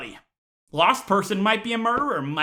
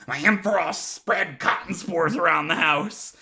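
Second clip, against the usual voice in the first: sheepish excuse; 3 semitones lower than usual. Retold or imitated. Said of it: "you give 'em the typical excuse".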